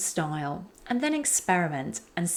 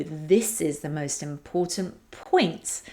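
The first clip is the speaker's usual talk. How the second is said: "point" set apart and pitched up; key-word emphasis; slower than usual. Shown as a demonstration. Coach showing the key message, "point" emphasized. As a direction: land firmly on "point", raised and emphatic. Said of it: "just an example of how you do it".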